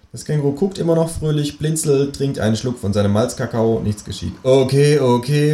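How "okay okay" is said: raised, higher-pitched giving in; calling out. A narrator's reading. Companion gives in after long silence, impatient raised voice. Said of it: "rufe ich".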